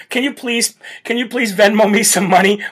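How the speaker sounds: a hint of a whiny beggar; mocking stranded Democrats begging for cash; mock pleading. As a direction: lightly plead for money in a put-on voice. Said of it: "they're asking for".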